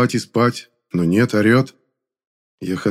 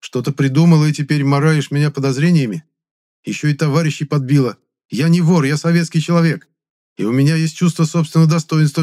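loud, raised indignant protest; indignant tirade; 7 semitones higher, 4 dB louder than usual. A narrator's reading. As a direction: defend your honour hotly.

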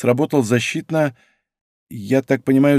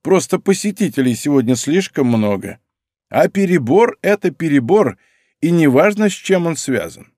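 a hint of a prickly old lady, higher; old patient brushing off her visitors; lightly voiced old woman; 6 semitones higher than usual. Old woman to the visitor, lightly voiced and prickly.

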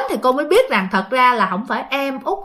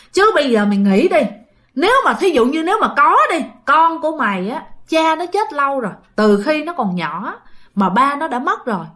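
higher, louder insistent urging; urgent pleading; 3 semitones higher, 4 dB louder than usual. Retold or imitated. Friend warns a mother about her child, urgently pleading. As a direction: press a reluctant friend with worry.

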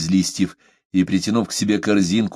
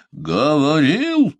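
high, slow, booming; thundering retort; 8 semitones higher, 3 dB louder, much slower than usual. A narrator's reading. Omaata thundering back at Parsel. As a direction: hurl the word back at him. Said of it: "прогремела она".

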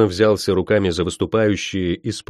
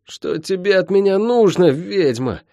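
raised, strained demand; hissed through teeth; 10 semitones higher than usual. Acted. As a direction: force it through clenched teeth. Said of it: "процедил ученик Цейры Асани".

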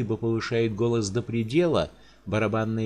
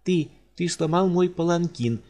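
higher, louder outraged cry; a spoiled noblewoman shrieking in offence; indignant cry; 8 semitones higher, 4 dB louder than usual. Acted. Countess cries out at the giant over her palanquin. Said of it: "возмущённо вскрикнула графиня".

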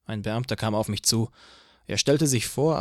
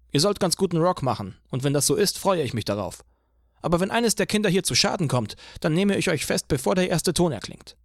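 higher, stern officer voice; police chief voice; 6 semitones higher than usual. A narrator's reading. Police chief lectures Eugene on the traffic danger, higher stern voice.

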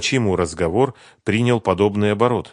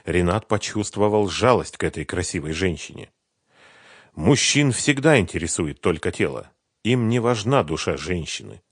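ordinary delivery, nothing marked

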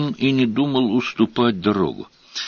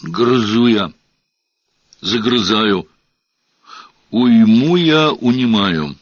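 deacon bass. Acted. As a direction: intone it like a church deacon. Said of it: "заговорил густым дьяконским басом".

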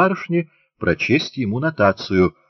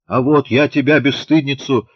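higher, kindly mock scolding; a mother teasingly scolding her daughter; mild threat; 6 semitones higher, 3 dB louder than usual. A narrator's reading. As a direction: threaten without any real anger. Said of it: "незлобиво пригрозила ей Ефросинья".

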